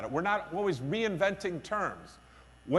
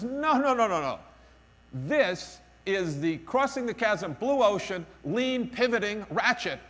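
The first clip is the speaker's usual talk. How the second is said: mock guru cutting in emphatically, higher at first; imitating an insistent guru selling his method; insistent guru pitch; 4 semitones higher, 3 dB louder than usual. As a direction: play a pushy one-tool evangelist, lightly hammed-up. Mimics a guru's sales pitch.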